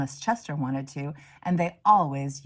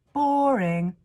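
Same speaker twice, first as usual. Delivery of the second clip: dismissive; 7 semitones higher, 5 dB louder than usual. Acted. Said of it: "Lily said".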